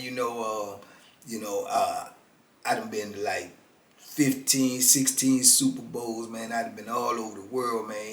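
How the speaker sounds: a quiet, easygoing New Orleans pitch; New Orleans accent. Retold or imitated. Con man pitching himself in a New Orleans accent. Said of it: "Got that little New Orleans accent".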